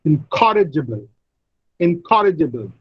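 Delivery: "Incorrigible" said in-COR-rigible; stress on second syllable. Shown as a demonstration. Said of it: "The second syllable receives the primary stress".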